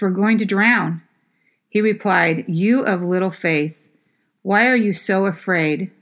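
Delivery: measured Bible reading to the congregation; scripture reading. Acted. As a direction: read the passage clearly and steadily. Pastor reads scripture passage aloud.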